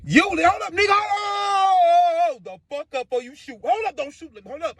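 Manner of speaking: high wailing cry for mercy, hammed-up; frantic acted howl; panicked pleading. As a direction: beg them to wait, voice shooting up. Acts begging robbers not to shoot.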